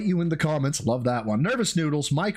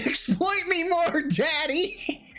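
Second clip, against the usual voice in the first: mock flirty plea; 12 semitones higher, slower than usual.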